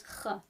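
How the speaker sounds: "X" said as a throaty kh sound; X as Spanish j. Shown as a demonstration. Teacher isolating the sound in Mexico, "X" as kh. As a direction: make "X" a rasped h, like Spanish j. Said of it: "but it sounds".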